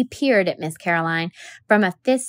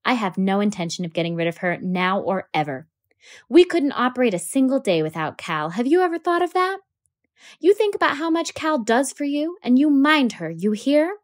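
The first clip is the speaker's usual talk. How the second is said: a hint of a firm, flinty father; a father laying down the law, pitched up; father correcting his daughter, lightly firm; 6 semitones higher than usual. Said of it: "Atticus's voice was flinty".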